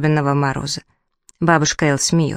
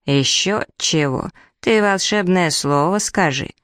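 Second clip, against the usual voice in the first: creaky nasty voice. Acted. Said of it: "таким скрипучим, противным голосом".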